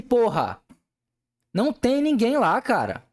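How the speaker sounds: furious reply to a boss who says he's idle; angry retort. Retold or imitated. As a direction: push back hard, indignant. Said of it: "Falei num tom de, de raiva".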